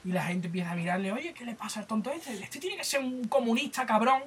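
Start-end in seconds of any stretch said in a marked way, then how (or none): 1.1-4.2 mock angry townsfolk. Townsfolk voiced in retold comic.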